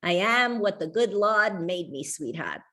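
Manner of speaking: put-on a father's gentle Boston accent. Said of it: "he said in his Boston accent".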